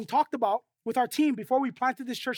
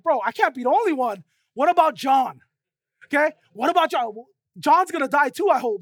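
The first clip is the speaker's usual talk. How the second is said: louder, complaining Peter; hammed-up protest, louder; mock-indignant Peter; 6 dB louder than usual. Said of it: "he's like".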